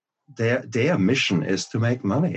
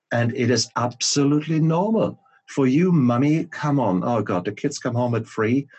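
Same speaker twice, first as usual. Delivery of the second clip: high, loud, coaxing sales voice; mock ad pitch; 5 semitones higher, 4 dB louder than usual. Parodying ads pushing wine on mums, bright loud coaxing. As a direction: sell wine to a tired mum. Mimicking alcohol advertising pitch.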